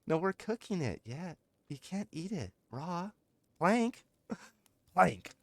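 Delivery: high-pitched mock scolding; exasperated high squawk, half laughing; yelling at friend. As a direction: playfully yell at a friend to stop. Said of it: "like you're yelling at your friend".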